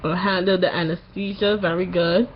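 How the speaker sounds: sore-throat voice after tonsil surgery; post-surgery voice. Real, not acted. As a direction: talk like your tonsils just came out. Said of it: "you notice something about my voice".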